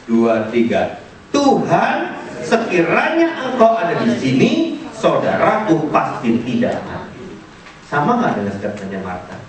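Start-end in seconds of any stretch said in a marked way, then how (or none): 1.3-7.2 congregation reading aloud. Shown as a demonstration. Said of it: "Mari baca sama-sama statementnya Maria".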